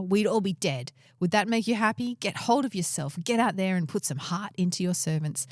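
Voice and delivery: a hint of a stern commander rebuking his king; dramatic reading of Joab. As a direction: read it like Joab scolding the king. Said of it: "you're much better reading it".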